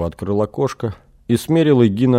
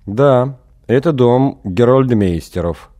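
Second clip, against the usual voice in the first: flat, slow, no expression; expressionless; 4 semitones higher, 4 dB louder, slower than usual. Acted. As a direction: answer with no feeling at all. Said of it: "без выражения ответили из окошка".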